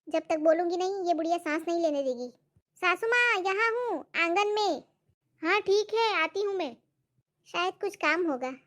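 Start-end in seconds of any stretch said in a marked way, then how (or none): 2.8-6.8 higher, polite bahu voice; high, dutiful daughter-in-law; sweet daughter-in-law. Acted. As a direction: sweetly answer the mother-in-law. Bahu replies to saas.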